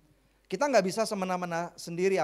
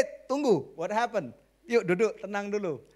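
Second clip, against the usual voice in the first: lightly acted peacemaker, raised pitch; headmaster stepping in; 4 dB louder than usual. Father as home headmaster halting a family fight, lightly acted intervention. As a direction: break up a squabble, mildly urgent. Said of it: "yaitu saya kepala sekolahnya".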